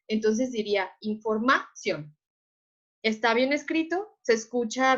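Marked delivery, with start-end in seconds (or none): 1.0-2.2 información wrongly stressed on MA; stress moved to A. Shown as a demonstration. Teacher showing the wrongly placed accent, stress on A. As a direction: lean on MA in información, let ción drop. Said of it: "la colocamos en la A".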